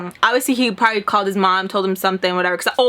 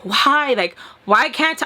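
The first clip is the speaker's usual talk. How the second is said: tearful; much slower than usual. Real, not acted. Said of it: "And if I cry now".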